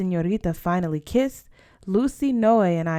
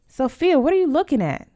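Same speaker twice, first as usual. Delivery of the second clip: irritated snap; 8 semitones higher, 5 dB louder than usual. A narrator's reading. Berta snaps at staring sister.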